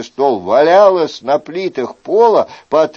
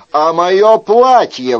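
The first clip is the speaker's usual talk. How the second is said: louder, slower outraged cry; exclaiming; 5 semitones higher, 6 dB louder, slower than usual. Acted. Chicot crying out to the host about his missing clothes, outraged. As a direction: cry out over the lost clothes. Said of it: "воскликнул Шико".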